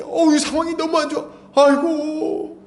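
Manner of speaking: high, drawn-out mock lament; dismayed wail. Believer wakes to bad circumstances, high dismayed wail. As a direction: moan upward in dismay, stretching the end. Acts waking to dire circumstances.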